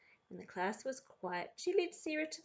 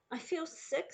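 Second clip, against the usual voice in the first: sickly complaint; 7 semitones higher than usual. A narrator's reading. Sarah complaining in the car.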